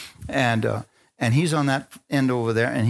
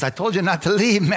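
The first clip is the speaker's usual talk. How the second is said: higher-pitched mock scolding; heated scolding; 6 semitones higher than usual. Wife repeating complaint to husband, heated scolding. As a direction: imitate a wife telling him off, pitched up.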